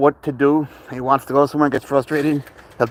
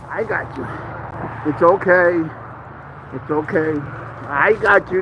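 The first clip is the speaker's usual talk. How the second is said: soothing; 4 semitones higher, slower than usual. Real, not acted. Comforting frightened cat in arms.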